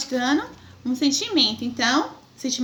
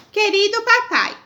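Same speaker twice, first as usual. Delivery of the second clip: put-on child's letter voice; 7 semitones higher, 4 dB louder than usual. Shown as a demonstration. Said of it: "A tia já vai ler".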